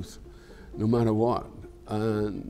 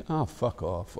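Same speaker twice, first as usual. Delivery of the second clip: a softer, dismissive ah fuck off; 5 dB quieter, slower than usual. Shown as a demonstration. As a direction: brush it off with "Ah, fuck off". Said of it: "or you can say".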